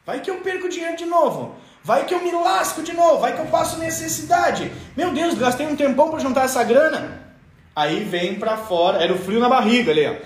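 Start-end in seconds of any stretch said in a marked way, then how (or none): 0.1-7.2 high-pitched anxious fretting; worried inner voice. Acted. Inner voice fearing another business loss, high worried fretting. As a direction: fret over the risk in a raised pitch. Acted inner fear of losing money.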